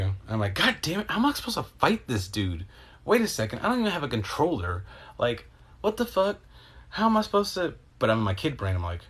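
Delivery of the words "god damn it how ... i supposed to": much higher, frantic self-quote; high panicked reaction. Retold or imitated. Reacting to the game fight, high frantic panic.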